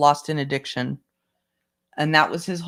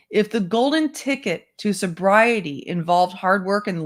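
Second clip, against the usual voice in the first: measured first-person narration; memoir read-aloud; 3 semitones higher than usual. Acted.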